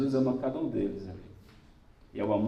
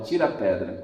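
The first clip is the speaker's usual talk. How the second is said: repeated order; 4 semitones lower, 3 dB louder than usual. Acted. Preacher repeating Jesus' order at the tomb, lower and calmer. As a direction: restate the order calmly and low. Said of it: "Jesus dá a ordem".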